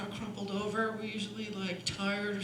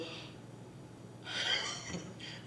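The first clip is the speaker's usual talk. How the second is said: deep, audible intake of breath; big breath demo; 7 dB quieter than usual. Shown as a demonstration. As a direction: suck in a big low breath before a high note. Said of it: "You gotta plant yourself and go".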